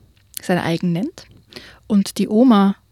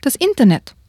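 lightly voiced sweet grandma; a hint of a fussy old grandma; sweet old lady; 5 semitones higher than usual. Grandma voice in read story.

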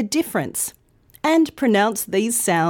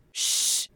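soft shh to quiet someone; hushing shh; 7 dB quieter than usual. Shown as a demonstration. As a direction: hush them with a brief shh. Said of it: "sound you use if you want someone to be quiet".

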